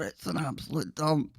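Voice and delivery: a hint of the snooty posh voice; posh accent again. Host repeating south-sider jibe in faint posh accent. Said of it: "they'll put on this crazy posh accent".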